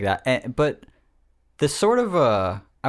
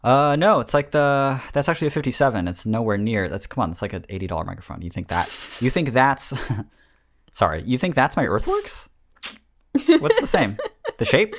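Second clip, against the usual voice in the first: indignant snob; 4 semitones higher than usual. Acted. Indignant mic snob rant.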